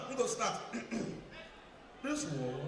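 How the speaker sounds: deep pastor voice. Acted. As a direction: drop low and quiet like a pastor. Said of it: "which church when the pastor they sound like this".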